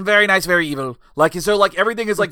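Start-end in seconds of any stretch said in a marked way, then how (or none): 0.0-1.0 theatrical villain catchphrase, louder; hammed-up demon showman voice; Danhausen. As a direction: pronounce it like a showy cartoon villain. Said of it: "His voice is like this".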